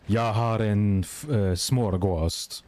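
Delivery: "Jag har en f-, uh, smörgås" said slowly in Swedish; slow careful Swedish demo; Swedish phrase demo. Shown as a demonstration. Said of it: "when you wanna say".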